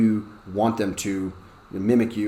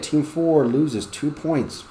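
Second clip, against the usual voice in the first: stern penalty; 5 semitones higher, much slower than usual. Shown as a demonstration. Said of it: "take points from their team".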